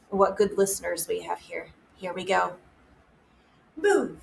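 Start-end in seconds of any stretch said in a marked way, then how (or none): 3.7-4.2 high, quick call of a command; game command. Shown as a demonstration. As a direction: call it out to start the children moving. Calling commands in freeze game.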